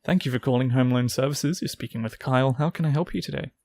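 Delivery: polite call centre script; phone agent reading the greeting; customer service voice. Pretend. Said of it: "In my work voice".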